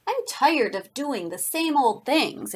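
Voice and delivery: slow, lightly voiced grumbling; mild storybook grumble; narrated grumble. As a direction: drag out the complaint a little. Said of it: "it grumbled".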